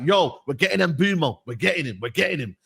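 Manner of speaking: lightly voiced mock of his transfer boasting; mocking imitation. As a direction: parody his overconfident boast. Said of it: "you were like".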